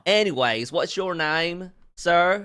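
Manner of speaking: put-on Southern accent. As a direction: play a born Southerner. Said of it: "you were doing a Southern accent".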